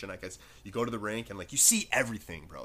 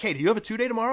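retold anxious question; 10 semitones higher, 6 dB louder, much faster than usual.

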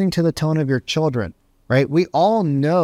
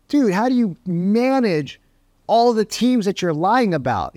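incredulous coach; 6 semitones higher than usual. Retold or imitated.

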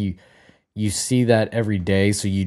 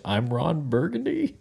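Ron Burgundy; 6 semitones higher, 5 dB quieter than usual. Retold or imitated.

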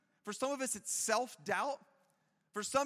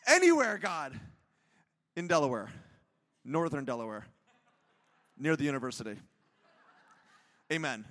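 grand prayer; 6 semitones lower, 6 dB louder than usual. Retold or imitated. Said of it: "what my prayer went".

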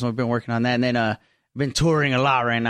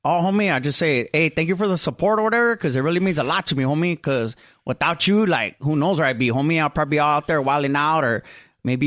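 Creeper. Acted. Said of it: "Could we have, uh, Creeper on for a sec?".

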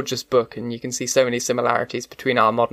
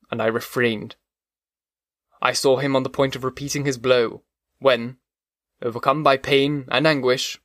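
steady, measured reading of a classic novel; audiobook narration. A narrator's reading. Podcast host reads the creature's tale, measured narration. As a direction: carry the listener through the chapter. Reads Frankenstein chapter aloud.

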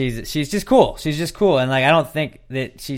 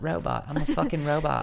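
imitating Sam; 5 semitones higher, 4 dB quieter than usual. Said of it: "I love the way she says robot".

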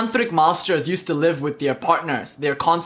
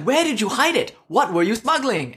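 pitched-up, acted demand to know; insistent questioning; 5 semitones higher than usual. Retired guard begs the smuggler for his secret, insistent questioning. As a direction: press for the secret, starting high.

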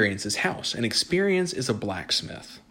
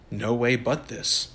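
firm; slower than usual. Acted. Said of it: "said the old man firmly".

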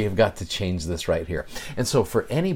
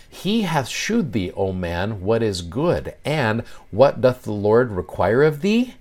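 scripture reading; slower than usual. Acted. Reads Micah verse eight aloud.

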